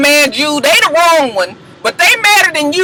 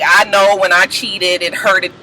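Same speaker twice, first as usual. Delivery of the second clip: mock apology; 4 semitones lower, slower than usual. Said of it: "she was just like".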